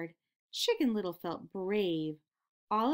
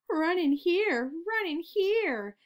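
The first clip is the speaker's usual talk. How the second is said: high, loud fox calling the friends in; sly fox shout; 9 semitones higher, 6 dB louder, slower than usual. A narrator's reading. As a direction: lure them in with a loud eager call. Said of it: "he screamed".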